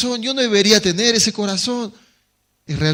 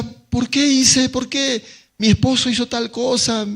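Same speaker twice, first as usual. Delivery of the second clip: anguished cry; 6 semitones higher than usual. Acted. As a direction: wail the question in grief. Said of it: "Y grita".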